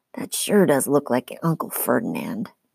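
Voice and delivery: low mumble, half to oneself. A character glances at the cement satyr beside him and remarks, mumbled. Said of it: "and mumbled".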